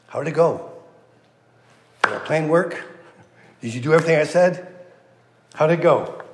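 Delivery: eager, questioning mother-in-law voice; pressing Ruth for news, a little anxious; anxious Naomi. Retold or imitated. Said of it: "Naomi's like".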